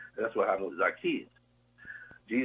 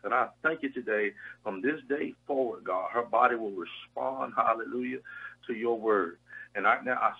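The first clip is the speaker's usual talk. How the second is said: fervent prayer. Real, not acted. Minister praying over the radio for a sick caller's healing. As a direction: pray over her healing with conviction.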